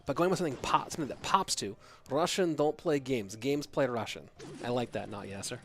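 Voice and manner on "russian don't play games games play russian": put-on slow, light Russian accent joke; a hint of Russian accent, deadpan. Streamer jokes with chat in a light Russian accent. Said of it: "trigger word do you use for Russian accent".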